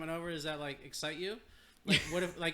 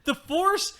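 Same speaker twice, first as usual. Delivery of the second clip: mocking echo; 14 semitones higher, 9 dB louder than usual. Real, not acted. Mocking friend's phrase, loud laugh.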